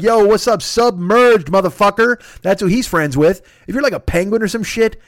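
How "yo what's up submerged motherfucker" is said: slightly higher, louder bro greeting, slow on submerged motherfucker; mock Aquaman greeting. Aquaman hailing his submerged friends, cocky bro voice. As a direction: greet a fellow sea dweller like a cocky bro. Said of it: "He's like".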